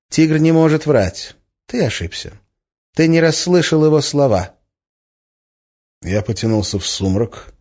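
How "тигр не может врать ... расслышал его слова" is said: insistent, higher-pitched correction. A narrator's reading. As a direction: contradict him firmly, pitched up. Fan firmly contradicts the narrator. (настойчиво, твёрдо)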